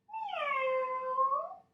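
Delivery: very high, rising cat meow. Shown as a demonstration. Teacher meowing for the class in cat pose. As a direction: mew like a cat. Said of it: "let me hear you meow like a cat".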